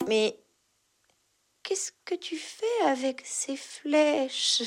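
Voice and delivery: slow, high, whispered stammer. Acted. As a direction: whisper it, stumbling. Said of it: "bégait-il".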